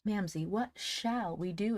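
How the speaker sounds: high, slow plea; imploring. A narrator's reading. Polly turns to her mother for help, imploring. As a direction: beg with the words stretched out. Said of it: "implored Polly of her mother".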